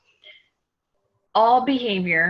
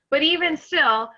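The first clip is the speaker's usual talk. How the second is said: out of breath. Real, not acted. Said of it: "I'm out of breath".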